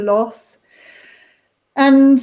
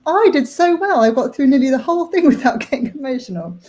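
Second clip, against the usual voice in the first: laughing through tears; 4 semitones higher, faster than usual. Real, not acted.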